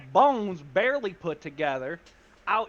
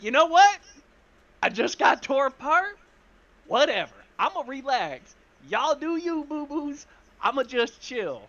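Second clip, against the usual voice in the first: high, exasperated retort easing off; fed-up brush-off; 8 semitones higher, 4 dB louder than usual. Acted. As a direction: wave them off, done with it all. Character fed up after being scolded.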